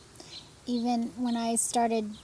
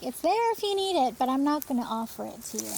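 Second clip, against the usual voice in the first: higher, louder, fast and offhand; mock breezy group leader; detached facilitator; 4 semitones higher, 4 dB louder, much faster than usual. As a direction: toss it off quickly. Facilitator withholding tissues.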